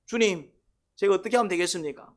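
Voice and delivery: acted plea to the Lord, rising in pitch; pleading prayer. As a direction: cry out for help as if praying. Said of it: "기도가 나와야 돼요".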